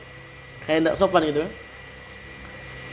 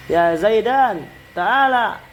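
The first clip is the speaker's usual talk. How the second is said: raised "ya Zaidan, ta'ala"; calling someone over; 4 semitones higher, much slower than usual. Shown as a demonstration. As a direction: beckon Zaidan to come. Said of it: "Ini dipakai orang-orang".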